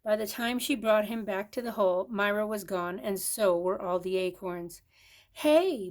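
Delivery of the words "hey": high loud shout; shouted hey. A narrator's reading. Squirrel finding acorns gone, loud shout. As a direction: yell it out in alarm. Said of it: "Burl shouted".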